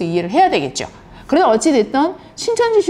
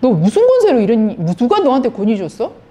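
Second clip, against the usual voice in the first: mock challenge, slightly raised pitch; retold confrontation; 2 semitones higher than usual. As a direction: imitate leaders demanding an explanation. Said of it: "막 예수님한테 이렇게 따지는 거예요".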